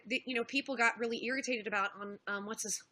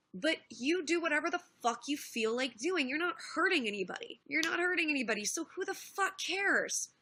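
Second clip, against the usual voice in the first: insistent and higher-pitched, slowing on the last question; retold dismissive attitude; 4 semitones higher than usual. Streamer quoting Bering backing her up, emphatically dismissive. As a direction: wave away the criticism as he did, pitched up. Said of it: "that was his attitude".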